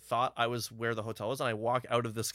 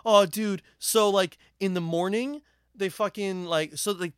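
raised, stumbling retold phone voice; mock frantic; 6 semitones higher, 4 dB louder than usual. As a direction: imitate a friend's frantic call, higher and halting. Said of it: "frantic call from his cell phone".

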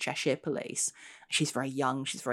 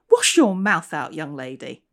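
outraged; 8 dB louder than usual. Acted. Ghost scolding the young constable, lightly outraged. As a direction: scold her like a prim old-fashioned ghost. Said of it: "with an outraged expression".

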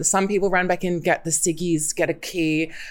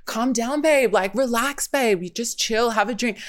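mock placating, pitched up; dismissive soothing; 4 semitones higher than usual. Men telling her to chill, dismissive soothing. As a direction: imitate men brushing her off in a higher voice.

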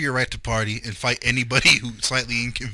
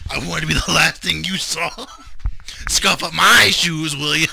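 mock menace; 3 semitones higher, 6 dB louder than usual. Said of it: "and he's right there".

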